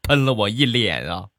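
outraged at being sprayed; agitated. Retold or imitated. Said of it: "情绪非常激动". (气急败坏地嚷)

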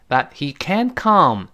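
"can't" with full vowel and unheard t; strong can't, t dropped. Shown as a demonstration. Teacher contrasting can't with can, full vowel and silent t. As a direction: lean slowly on "can't", no released t. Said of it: "施暴变成can".

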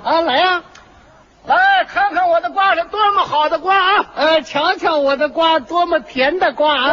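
略微拔高的叫卖腔; 像在街边招揽买瓜的人; 瓜贩吆喝. Acted. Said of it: "你听着吆喝呀". (带点夸张的卖瓜吆喝)

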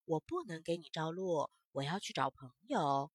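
refusing. Acted. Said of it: "萤火虫却说".

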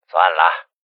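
low, understated dismissal; mildly indifferent brush-off. A narrator's reading. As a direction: let it go coolly, barely bothered. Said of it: "只是淡淡的说了两个字".

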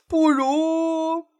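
sentence broken off high; cut off mid word. Acted. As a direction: stop abruptly mid-phrase. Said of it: "何仙姑不等他说完".

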